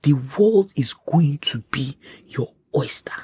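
slow, measured voice of God; unhurried, weighty reassurance; God speaking. Acted. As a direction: deliver a promise slowly, word by word. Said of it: "He now said".

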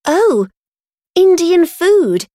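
high, slow, gushing Oh, Indian food; gushing delight. Acted. Becky gushing over the Indian food on the table, high and slow. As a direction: fake a breathless thrill at the plates.

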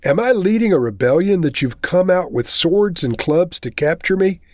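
measured, solemn Bible reading with voiced quotes; scripture reading. Pastor reading Matthew aloud to the church, solemn scripture reading. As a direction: read the Passion story to the congregation. Reads the Gospel passage aloud.

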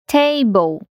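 "Table" with TA- stressed, -ble light; stress on first syllable. Shown as a demonstration. Teacher models "Table" for Brazilian learners, stress on TA. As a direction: hit TA in "Table". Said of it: "o stress geralmente tá na primeira sílaba".

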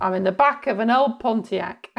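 put-on Californian accent; demonstrated American accent; American accent, in character. Shown as a demonstration. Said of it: "California. I have to get into character now".

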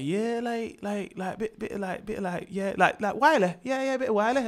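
failed attempt at a Welsh accent; botched Welsh accent. Imitating Welsh cousin asked about music, botched Welsh accent. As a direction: have a halting go at Welsh. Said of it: "I don't know what this accent is".

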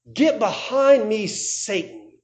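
a slow, grave reprimand, not shouted; stern rebuke. Retold or imitated. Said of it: "Now what does he say?".

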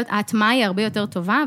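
usual speaking voice

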